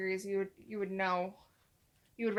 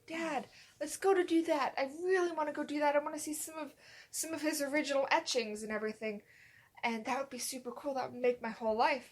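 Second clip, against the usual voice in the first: eager pleading; 4 semitones higher than usual. Retold or imitated. Retold pleading with dad.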